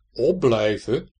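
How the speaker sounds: drawn-out indignant question; protesting. A narrator's reading. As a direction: protest in disbelief. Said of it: "protesteerde meneer Willemsen". (verontwaardigd protesterend)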